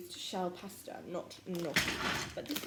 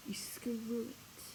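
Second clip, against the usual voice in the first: whisper; 3 semitones higher, 5 dB quieter, much slower than usual. Real, not acted. Cooking hack, hushed instruction.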